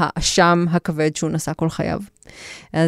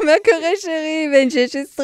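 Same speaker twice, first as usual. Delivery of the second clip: put-on higher, flirty French-accented Hebrew; flirtatious French accent; 8 semitones higher than usual. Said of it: "אני רוצה לחזור לדבר במבטא צרפתי, פלרטטני".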